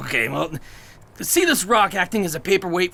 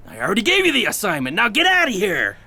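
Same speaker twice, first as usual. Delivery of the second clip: fast, loud get out; irritated dismissal; 4 semitones higher, 3 dB louder, faster than usual. Acted. Chief orders agent out, fast and loud. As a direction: shove him out the door with words.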